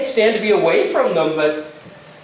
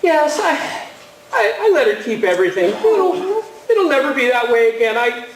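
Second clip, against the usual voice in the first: getting emotional; 3 semitones higher than usual. Real, not acted. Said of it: "I didn't mean to get emotional".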